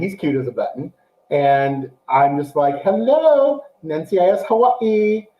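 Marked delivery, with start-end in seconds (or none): 2.8-5.3 high, drawn-out "hello", easing down; appreciative hello. Retold or imitated. Host swooning over the new show, appreciative hello. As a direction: sing out a pleased, higher hello. Acting out delighted reaction to show.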